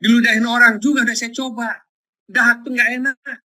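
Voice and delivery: shouted testimony. Real, not acted. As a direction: call it out to the hall. Preacher recounts being spat on. (suara meninggi, berseru)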